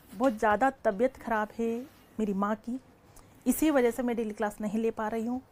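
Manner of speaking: low, soft and subdued; subdued explanation. Real, not acted. Teacher telling students her mother is very ill, subdued. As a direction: quietly explain a family difficulty.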